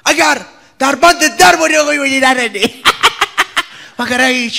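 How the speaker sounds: laughing. Real, not acted. Reciting favourite line, laughing.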